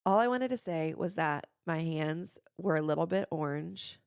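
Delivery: careful, measured attempt at fry-free talk; slow practice voice. Shown as a demonstration. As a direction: spell it out slowly, practising. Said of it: "you're just, like, talking slower".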